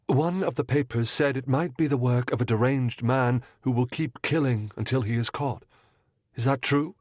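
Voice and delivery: lightly voiced young lady. Mrs Munro confiding her fear to the detective, lightly voiced. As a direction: confide it earnestly. Woman asks about killer.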